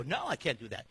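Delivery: meek refusal. Retold or imitated. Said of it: "You go".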